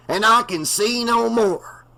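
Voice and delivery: prophesy death to the crowd; doom-saying preacher. A narrator's reading. The blinded reverend warns the townies, prophetic.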